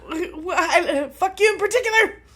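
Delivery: high, fast, laughing outburst. Real, not acted. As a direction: blurt it out while laughing. Laughing at the monkey story.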